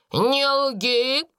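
acted angry order, not full volume; angry shout. A narrator's reading. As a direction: cry out in indignation. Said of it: "закричала она".

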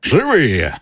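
high, bright exclamation; exclaiming. Acted. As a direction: cry it out in mock delight. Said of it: "воскликнул сэр Патрик".

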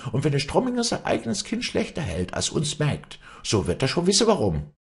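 high-pitched, defiant maid; freche Magd, trotzig. Acted. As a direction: talk back and put her in her place. (freche Magd, trotzig keifend)

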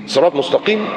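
صراط said with a thin seen for the saad; mock mispronounced صراط, opening on a light s; wrong letter demo. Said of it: "سين سين".

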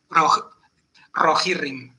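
"rojirrim" with a trilled opening r; strong first R. Shown as a demonstration. Host showing how Castilian speakers say it, strong trill. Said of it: "con la primera R fuerte".

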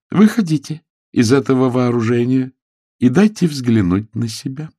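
shouted command. A narrator's reading. Jane orders the hidden man into view, calling out. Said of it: "крикнула она".

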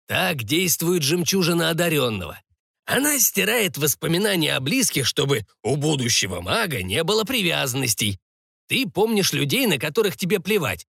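lightly voiced old sorcerer; a hint of an old man instructing; old sorcerer explaining. Sorcerer explaining the pearl to the boy, lightly voiced.

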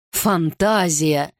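ФАНТАЗИЯ drawn out slowly in disbelief; incredulous echo. Acted. King echoes the courtier's excuse, slow and incredulous. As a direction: repeat ФАНТАЗИЯ back, stretched out, doubting it.

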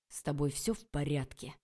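low words pushed through gritted teeth. A narrator's reading. Oleg asking the girl through gritted teeth. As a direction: strain it through clenched teeth. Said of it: "сквозь зубы процедил Олег".

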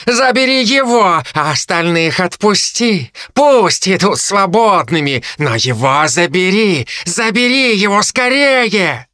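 high, slow, hungry harpy voice; greedy harpy. Acted. Harpy Kai demands the boy for her garden, high greedy harpy voice. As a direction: stretch every word with craving.

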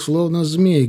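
usual speaking voice

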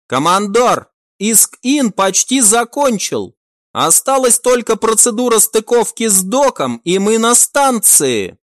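bright, eager sidekick reporting in; eager young crewman. Acted. Max reports to commander.

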